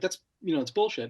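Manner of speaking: normal talking voice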